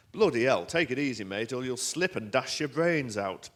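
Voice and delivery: loud Yorkshire warning; Yorkshire-accented decorator, slowing at the end. Acted. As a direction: bellow a warning in broad Yorkshire. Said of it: "he was the brother of the, uh, guy in the elevator".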